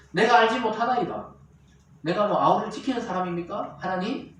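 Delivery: mildly brazen mock denial; feigned ignorance. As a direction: play innocent, lightly acting out a brazen denial. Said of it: "시침이 딱 떼죠".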